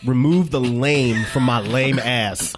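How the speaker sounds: a hint of a solemn prayer; mock prayer. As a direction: pray it slowly and low, half joking. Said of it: "A lame-octomy".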